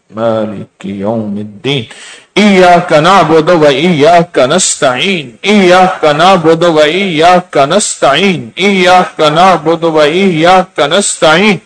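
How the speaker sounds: تلاوت کا دھیما، ٹھہرا ہوا لہجہ; Quranic recitation. Acted. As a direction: intone it slowly and devoutly, repeating the verse. Leads congregation in recitation.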